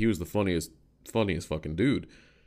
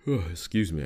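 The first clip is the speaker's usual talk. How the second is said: yawning; slower than usual. Real, not acted. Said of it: "I keep yawning".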